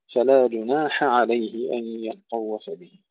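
slow فلا جناح عليه, each word set apart; separated words. Shown as a demonstration. Teacher slowly separating the words for students. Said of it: "فصل بعضها عن بعض".

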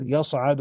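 يصعد as yasʿadu, no doubled letters; يصعد said light, sad and ain single; light reading. Shown as a demonstration. Teacher giving Ibn Kathir's reading, light and plain. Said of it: "بالتخفيف".

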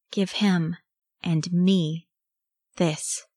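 fierce, word-by-word demand with pauses; snapping the words. A narrator's reading. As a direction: bite off each part separately. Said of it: "his teeth snapping the words".

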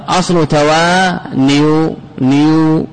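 توانيو slowly split, ending repeated with a u sound; slow demonstration of the u ending in توانيو; damma on nun. Shown as a demonstration. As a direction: stretch توانيو, then repeat نيو by itself. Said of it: "النون هنا مضمومة".

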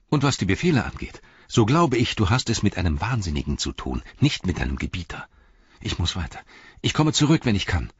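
lightly voiced insistent hobbit; hurried, earnest farewell; urgent Pippin. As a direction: argue hurriedly, lifting at the parting words.

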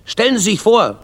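high, indignant outburst; angry. A narrator's reading. Teacher complains to the boy's father, angry. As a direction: exclaim in outrage as the teacher. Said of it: "sagt der Lehrer zornig".

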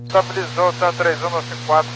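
distant voice through a radio; crackling cockpit radio transmission; crackly military radio. Real, not acted. Pilot heard over radio link.

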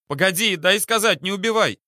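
high, loud panicked plea; desperate begging. Acted. Captain at the window begging Petrov, panicked. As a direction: beg for your life.

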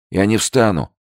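put-on high, weak young voice; thin voice. A narrator's reading. Soldier refusing the lieutenant, thin voice. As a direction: say it small and thin but firm. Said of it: "раздался тонкий голос".

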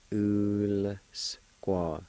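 "ul, squat" held out in separate syllables; slow sounded-out pronunciation. Shown as a demonstration. Teacher repeating the L with U word for learners, slowly sounded out. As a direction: draw out "ul", then "squat". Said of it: "pronounce the L sound with the U like this".

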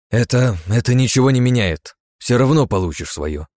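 flustered but stern; a touch of stern threat. Acted. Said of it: "Грозно отреагировала та".

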